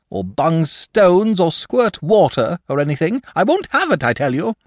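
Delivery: high, loud fussy dragon voice; a nervous, huffy dragon pleading. Acted.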